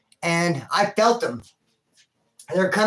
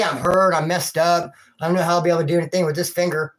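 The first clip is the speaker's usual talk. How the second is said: mock whining; 3 semitones lower, faster than usual. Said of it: "I didn't say".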